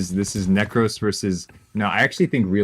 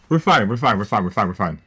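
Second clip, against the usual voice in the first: panicky reassurance; 4 dB louder, faster than usual. Real, not acted. Streamer in trouble tells chat, loud and panicky, that they're fine. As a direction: insist loudly it's all okay while it isn't. Panicking during a losing round.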